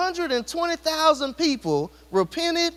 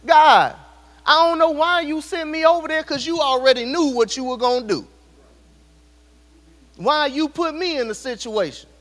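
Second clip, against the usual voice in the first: Jonah complaining; 3 semitones higher, 4 dB louder than usual. Acted. Preacher voices Jonah complaining to God.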